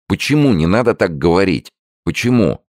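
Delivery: high, pleading cry of alarm; alarmed protest. Acted. Son pleads with his dying father, alarmed and high. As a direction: beg him not to say it, voice jumping up.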